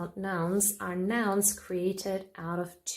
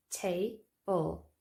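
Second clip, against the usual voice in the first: TA-ble, first syllable punched; stress on first syllable. Shown as a demonstration. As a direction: say table with weight on TA. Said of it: "the stress is on the first syllable".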